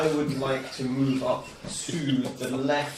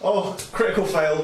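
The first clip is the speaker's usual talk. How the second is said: higher, louder dismay at the roll; 4 semitones higher, 4 dB louder than usual. Real, not acted. Player reacting to a fumbled spell roll, dismayed. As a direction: groan out the bad result. Dice rolled a one.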